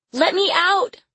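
put-on high, loud little girl's scream; screamed plea. A narrator's reading. Caged Lily to her captor, screamed. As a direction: cry out in a high child's voice, demanding release. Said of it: "she screamed".

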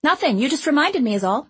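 put-on high, eager chatty girl; bubbly little girl rushing her words; young girl voice. A narrator's reading. Girl answers quickly.

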